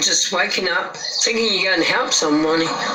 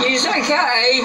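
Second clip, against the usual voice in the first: calling out; 5 semitones higher, slower than usual. Retold or imitated. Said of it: "So I just put on a blurb like that".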